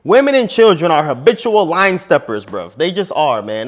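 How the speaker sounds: quoting Charlie Murphy. Retold or imitated. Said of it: "The quote from the late, great Charlie Murphy".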